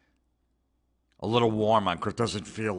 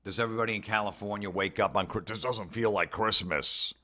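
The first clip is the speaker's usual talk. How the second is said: ordinary delivery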